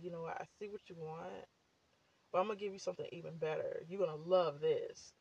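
a hushed God letting her in on a secret; voicing God. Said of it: "God will come through and be like".

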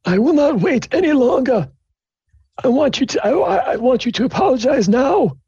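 high-pitched strict headmaster voice; stern dean. Acted. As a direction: scold the students like a stern university dean. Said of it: "dean's like".

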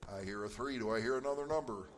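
playful auctioneer call. Pretend. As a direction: run it like a quick auction. Quiz answers sold like an auction.

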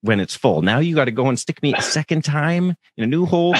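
exasperated rant at the nurse, hammed-up; mock outrage. Patient ranting at the nurse, mock outrage. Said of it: "I'm like".

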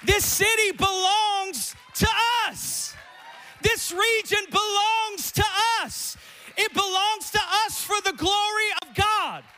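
high, loud, slow shouted preaching; preaching at full force. Acted. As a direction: build to a thundering proclamation.

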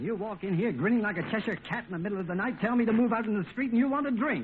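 building angry protest at his friend; indignant outburst. Acted. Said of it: "not, not so loud".

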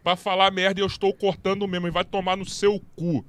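loud, heated telling-off; angry rant. Real, not acted. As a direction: rant loudly at the viewer. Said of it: "é normal ele ficar pistola".

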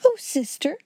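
high-pitched, weepy appeal; tearful sniffling. A narrator's reading. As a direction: whimper to a stern sister. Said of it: "she sniffed".

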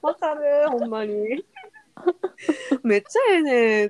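animated Kansai speech; Kansai dialect, lively. Retold or imitated. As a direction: quote a keen Kansai fan. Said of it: "って言われるけどさ".

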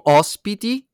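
high, loud, sultry announcer voice; sensual voice. Shown as a demonstration. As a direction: purr it out like a seductive announcer. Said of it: "lo dico con voce sensuale".

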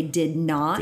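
"did not" carefully said as two words; deliberate DID NOT. Shown as a demonstration. Host showing Clinton's denial, deliberate "did not". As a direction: make both words count in "did not". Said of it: "he made sure to say".

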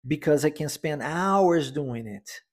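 hours lifted and stretched, slow and clear; stress on hours. Shown as a demonstration. Teacher modelling the sentence, stress on hours. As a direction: lean on hours, the rest lighter. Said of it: "a ênfase na palavra hours".

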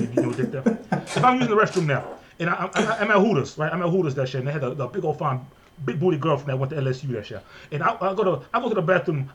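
exaggerated Louisiana dialect, rambling and rising into indignation; Louisiana Cajun accent. Podcaster acting out run-ins with police, rambling exaggerated Louisiana accent. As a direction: tell it in a put-on thick Louisiana accent. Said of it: "I can do that accent all day".

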